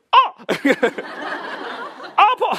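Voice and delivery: scared squeal. Retold or imitated. Speaker reenacting his own scared yelp during laser treatment. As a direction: squeak it out like a frightened kid. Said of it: "이렇게 쫄잖아요".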